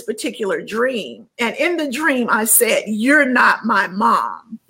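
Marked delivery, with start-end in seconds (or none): 2.9-4.6 slow, measured stern retelling; firm, drawn-out rebuke, retold. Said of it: "I said it very sternly".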